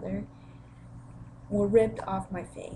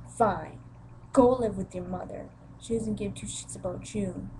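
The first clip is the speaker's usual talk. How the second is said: retold father's dismissal. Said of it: "my father said these words".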